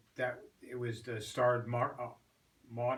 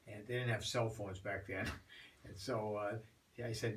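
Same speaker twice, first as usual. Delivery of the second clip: ordinary delivery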